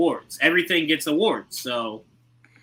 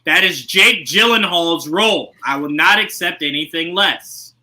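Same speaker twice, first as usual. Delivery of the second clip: firm, punchy string of refusals; emphatic refusal; slower than usual. Real, not acted. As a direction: lay down the law, word by word. Mock-stern objection to another casting.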